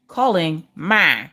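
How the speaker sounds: slow, drawn-out automated announcement; a hint of automated voice; lightly voiced assistant. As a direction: announce it slowly, like a device. Acting out Echo placing wrong call.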